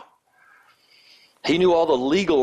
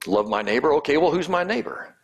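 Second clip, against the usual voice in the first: higher, mock-incredulous snark rising on well; sarcastic retort; 3 semitones higher than usual. Law expert saving face before Jesus, sarcastic and snarky. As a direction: throw the question back sarcastically. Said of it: "He tries to get a little sarcasm, snarky response".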